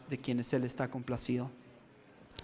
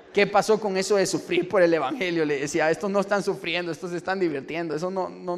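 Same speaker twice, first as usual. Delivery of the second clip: indignant complaint; 3 semitones higher, 6 dB louder than usual. Retold or imitated.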